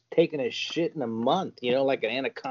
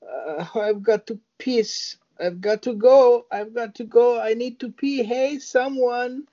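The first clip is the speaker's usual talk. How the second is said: high whiny plea, slow at both ends; mock needy woman, pitched high; high mock desperate woman; 9 semitones higher than usual. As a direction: beg high like she's bursting. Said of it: "her sitting her bunk going".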